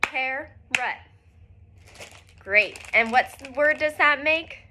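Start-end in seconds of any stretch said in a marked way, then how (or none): 0.0-0.5 carrot split into two clapped beats; syllable by syllable, car-rot. Shown as a demonstration. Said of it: "let's all do it together".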